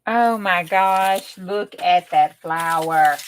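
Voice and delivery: slow, drawn-out amazement; awed. Real, not acted. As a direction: savour each word in awe. Admiring a finished flower.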